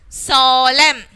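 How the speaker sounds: slow "solemn" said as sol-em, ending on M; silent N. Shown as a demonstration. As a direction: leave the final N off "solemn". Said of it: "the N should be silent".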